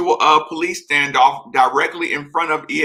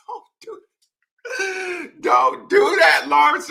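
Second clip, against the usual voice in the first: mock scolding; much slower than usual. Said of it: "I was ready to get mad at you".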